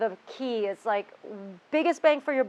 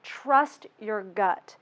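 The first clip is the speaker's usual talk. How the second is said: Trust your gut said very slowly, each word landed; slow and deliberate, like a motto; slow, weighty restatement; much slower than usual. Shown as a demonstration. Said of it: "That's it".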